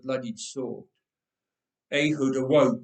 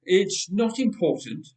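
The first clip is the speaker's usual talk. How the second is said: stammering; 4 semitones higher, 5 dB louder than usual. A narrator's reading. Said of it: "Ehud stammered".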